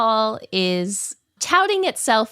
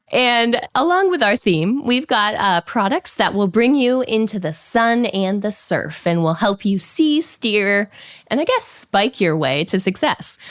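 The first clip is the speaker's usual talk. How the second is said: hoarse voice. Real, not acted. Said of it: "the speaker's not feeling well".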